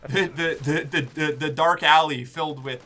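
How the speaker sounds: a hint of an old prospector. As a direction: ramble like a grizzled old miner. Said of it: "Excellent old prospector voice".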